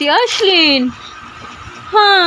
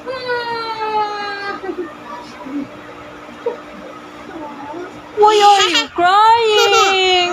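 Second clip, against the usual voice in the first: slow, gentle hushing question; 3 semitones higher, 5 dB quieter, much slower than usual. Real, not acted. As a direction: comfort a crying infant softly. Soothing crying baby. (marahang pag-alo sa umiiyak na sanggol)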